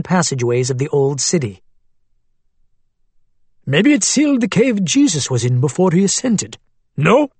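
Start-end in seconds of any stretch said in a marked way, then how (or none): 3.6-7.3 put-on Arabic accent. A narrator's reading. Abu Hamad's voice.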